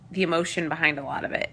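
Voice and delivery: ordinary delivery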